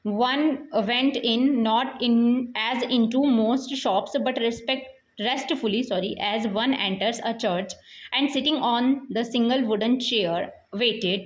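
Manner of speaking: measured, deliberate reading from the book; slow textbook reading. Acted. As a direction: read each English word out slowly for the class. Teacher reads text aloud slowly. (धीमी, ठहरी हुई पाठ-वाचन शैली)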